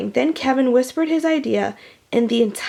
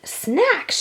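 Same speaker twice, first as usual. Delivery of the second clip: high excited shout; 7 semitones higher than usual. A narrator's reading. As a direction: call out the word eagerly. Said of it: "shouted B B".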